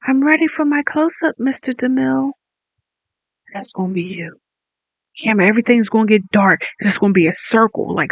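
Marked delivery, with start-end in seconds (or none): 0.1-2.3 put-on old movie star. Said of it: "You know how they be like".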